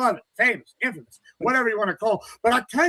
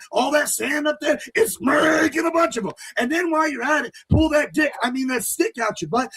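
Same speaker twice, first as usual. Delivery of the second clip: shouting rant; 6 semitones higher than usual. Real, not acted. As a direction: yell it out at him. Ranting insults at rival.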